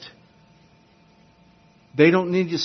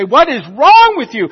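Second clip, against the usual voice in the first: incredulous; 9 semitones higher, 10 dB louder than usual. Pretend. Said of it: "grab you and say".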